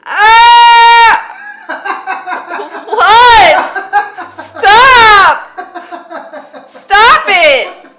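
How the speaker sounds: high, loud laughing shouts; laughing shrieks. Real, not acted. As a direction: shriek through helpless laughter. Cracking up at partner.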